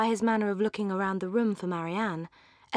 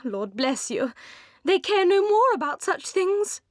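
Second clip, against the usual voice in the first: put-on high, pitying old gossip's cry; high-pitched Mrs Jennings, full of pity; 8 semitones higher than usual. A narrator's reading. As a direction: sigh it out like a kindly busybody matron. Mrs Jennings voiced in reading.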